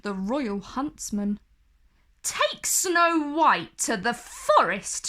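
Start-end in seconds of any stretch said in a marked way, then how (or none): 2.2-5.1 sharp, raised queen's command; cold queen snapping an order; snapped order. Acted. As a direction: bark it at the huntsman. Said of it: "she snapped".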